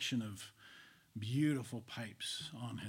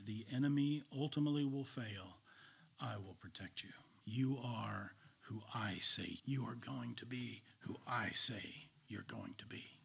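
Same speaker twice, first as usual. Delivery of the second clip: God's reassuring whisper. Acted. God comforting David.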